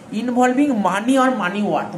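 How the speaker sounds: very slow, each word spaced out; slow dictation. Shown as a demonstration. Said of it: "dictating definition slowly". (ধীরে ধীরে শ্রুতলিপি)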